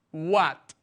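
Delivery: "What" said alone, clearly and firmly; "What" with a falling tune, as a drill; pronunciation model. Shown as a demonstration. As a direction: model "What" for learners to repeat. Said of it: "practicamos la pronunciación".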